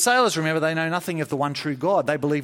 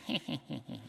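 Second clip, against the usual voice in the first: faint distant laugh; 12 dB quieter than usual. Pretend. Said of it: "hear on the breeze faintly".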